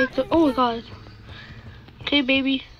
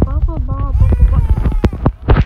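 mocking babble; 8 semitones higher, 8 dB louder, much slower than usual.

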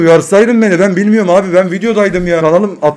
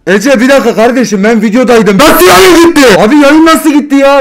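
voice changer; 8 semitones higher, 7 dB louder than usual. Acted. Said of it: "Ben ses değiştiriciyle trollüyorum seni".

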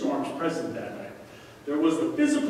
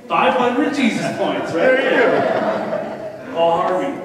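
loud, high, laughing shout of praise; laughing excited praise; 3 semitones higher, 9 dB louder, much slower than usual. Real, not acted. Pastor laughing loudly as he praises the old timer's answer. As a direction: crow with delight at the right answer.

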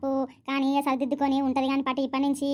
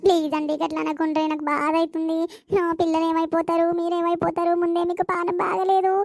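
desperate pleading; 3 dB louder than usual. Acted. Wife begs her husband not to throw her out, pleading louder. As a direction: plead harder with every line, voice climbing.

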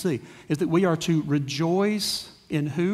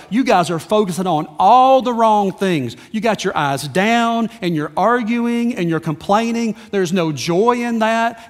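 mildly raised, exasperated imitation of Paul; frustrated scolding; 3 dB louder than usual. Paul to a divided church, frustrated scolding. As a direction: scold them point by point, voicing his frustration. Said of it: "Paul is frustrated with the church".

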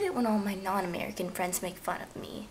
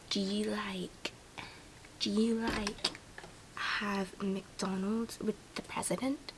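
slow, careful amateur British accent; badly faked British accent, drawn out; attempted British accent. Shown as a demonstration. Mocking Americans about McDonald's, attempted British accent. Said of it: "attempt to do a British accent".

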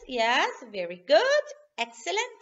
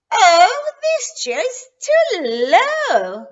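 louder, higher whiny complaint; complaining; 6 semitones higher, 10 dB louder, slower than usual. Acted. Goldilocks complains about chair.

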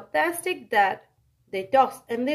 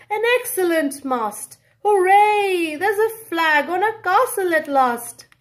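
higher, louder cheerful dad; dad yells happily; 5 semitones higher, 4 dB louder than usual. Acted. Dad on the beach cheers at his find. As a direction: whoop the hooray. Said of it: "yells the dad".

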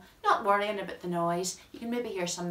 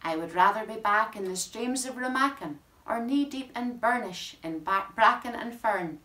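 bouncy, jig-like recital, louder; lively poem reading; 3 dB louder than usual. Acted. Reading Tyrone Jigs to the audience, bouncing recital. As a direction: let the place names bounce like a jig. Reads a tongue-twister poem aloud.

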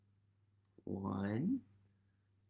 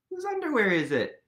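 gasping, fast surprised question; wide-eyed gasp of surprise; 5 semitones higher, 3 dB louder, faster than usual. Acted. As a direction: act amazed at the reveal. Gasp reveal to children.

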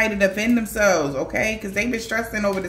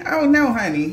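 sassy refusal; 4 semitones higher, 5 dB louder than usual. Acted. Acting out an indignant man's refusal.

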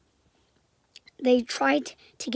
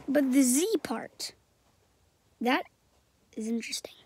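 whispering. Real, not acted. Conspiratorial whisper theory.

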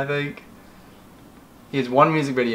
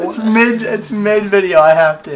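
insistent protest; 7 semitones higher, 8 dB louder, slower than usual. Real, not acted. Arguing with mom over clip.

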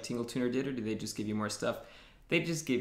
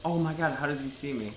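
panicking gamer; 3 semitones higher than usual. Real, not acted. Enemy spots gamer mid-chase.

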